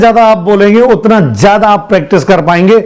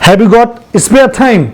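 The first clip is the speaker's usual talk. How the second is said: slow model sentence; much slower than usual. Shown as a demonstration. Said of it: "तो कैसे पूछे".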